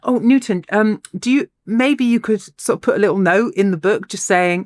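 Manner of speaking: imitating someone asking a favour ever so politely; hesitant, courteous mock plea. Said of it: "sort of very politely says".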